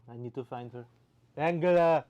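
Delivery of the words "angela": loud, high call in a mock German accent. Streamer calls out for Merkel in a loud, high mock German accent. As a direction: shout the name across the map.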